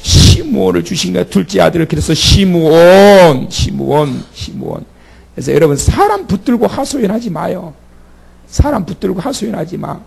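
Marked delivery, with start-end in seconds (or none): 2.1-4.9 시므온 dying away; fading repetition. Shown as a demonstration. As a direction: let 시므온 fade to a whisper. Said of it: "repeats name fading".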